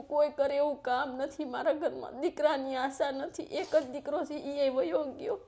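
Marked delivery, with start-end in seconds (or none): 4.3-5.4 slow, breaking into tears; crying. Real, not acted. Telling the host her son left, slow tearful words. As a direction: let the sob catch on the words. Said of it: "પહેલા તો બા તમે રડો નહીં".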